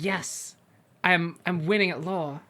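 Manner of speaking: building, lightly acted gloating; mock triumph. Player voicing their courtroom win as music crescendos, mock triumphant. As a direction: celebrate as if finally winning the case.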